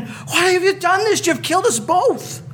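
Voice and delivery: high, cracking cry of a dying frog. Acted. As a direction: gasp it out, betrayed and dying. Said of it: "in his dying gasps".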